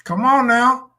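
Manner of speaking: high pleading voice. Retold or imitated. Acting drunk woman pleading.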